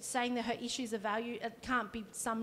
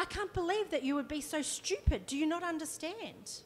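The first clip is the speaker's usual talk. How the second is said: irate complaint; 3 semitones higher, 3 dB louder than usual. Retold or imitated. Grandma scolding receptionist about her appointment, indignant and loud. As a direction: berate her for the short booking. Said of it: "I'll do a little bit of a role play".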